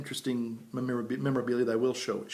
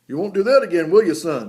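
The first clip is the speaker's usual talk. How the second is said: loud, higher mock-gruff instructor; drill instructor; 7 semitones higher, 13 dB louder than usual. Instructor ribbing the sick recruit, loud and gruff. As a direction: tease the sick recruit like a sergeant. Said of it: "And he goes".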